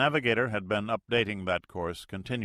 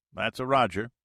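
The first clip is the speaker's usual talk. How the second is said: radio pilot; 4 semitones higher, 5 dB louder than usual. Acted.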